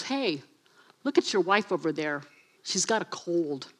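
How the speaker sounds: lightly voiced devil, coaxing the king; Satan tempting. Satan tempting David about his wife, low and sly. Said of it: "and Satan goes".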